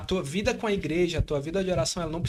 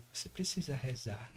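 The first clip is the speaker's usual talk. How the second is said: dull; 6 semitones lower, 13 dB quieter than usual. Retold or imitated. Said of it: "É tão borocochô".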